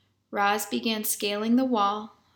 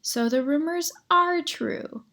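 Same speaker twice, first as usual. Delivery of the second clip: laughing; 8 semitones higher, 4 dB louder than usual. A narrator's reading. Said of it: "Nettle laughed".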